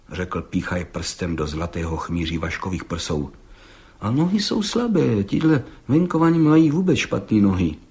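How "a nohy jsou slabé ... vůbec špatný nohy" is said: slightly high, fault-finding constable; critical appraisal. Acted. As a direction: pick fault like an expert. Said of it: "pravil pan Hejda kriticky".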